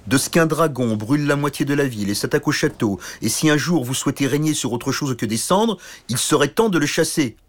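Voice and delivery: mild irritated king; scolding king. Acted. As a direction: order him to act.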